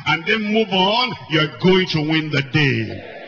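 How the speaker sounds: impassioned preaching. Real, not acted. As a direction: urge them to stop hurting themselves. Preacher pleading with the congregation.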